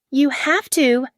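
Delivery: high, loud desperate scream. A narrator's reading. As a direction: scream it at her. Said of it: "she screamed".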